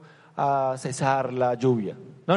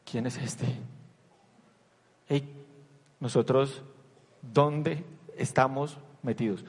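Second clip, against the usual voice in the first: awed hush; 4 semitones lower, 6 dB quieter, slower than usual. Retold or imitated. Disciples awed and shaken.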